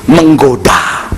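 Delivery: very slow, stretched "Menggoda"; drawn out. Shown as a demonstration. Preacher stretching "Menggoda" very slowly. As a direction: linger on "Menggoda". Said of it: "word stretched for effect".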